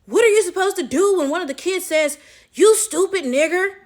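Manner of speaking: a hint of a prim older lady, casual; lightly voiced lady, matter-of-fact; imitating the white lady. Coworker quoted casually saying the slur. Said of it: "The white lady says".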